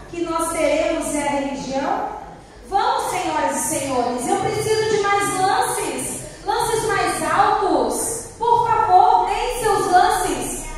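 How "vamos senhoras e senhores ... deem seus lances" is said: auctioneer. Acted. Auctioneer urging more bids.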